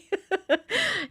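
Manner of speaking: high-pitched chuckling; real giggle at own idea; amused laugh. Real, not acted. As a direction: break off into a laugh.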